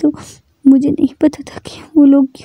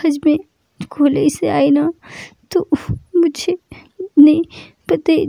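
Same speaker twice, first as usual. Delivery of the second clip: tearful telling; 3 dB quieter than usual. Acted. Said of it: "वो रोती, रोती, रोती रहती".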